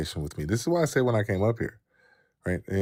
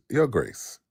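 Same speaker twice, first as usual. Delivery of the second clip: a touch of a posh English accent on Your Grace; lightly mock-English, like your ancestors; 3 semitones higher than usual. Shown as a demonstration. Mocking host demands a title in an English accent, lightly put-on English accent. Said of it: "Say, say it in the English accent".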